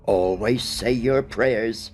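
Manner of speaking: put-on slow, tender old housekeeper; a gentle, lightly voiced comfort; reassuring. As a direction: soothe the child slowly.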